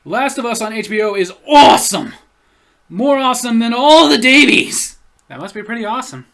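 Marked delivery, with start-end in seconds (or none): 0.0-5.0 loud, gushing fan read; excited. Retold or imitated. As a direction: hype it up like a fanboy. Reading an excited comment.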